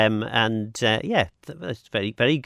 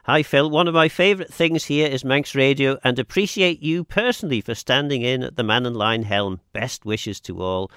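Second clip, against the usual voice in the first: reading out a text; 3 semitones higher, 4 dB louder than usual. Acted. Host reads a listener text.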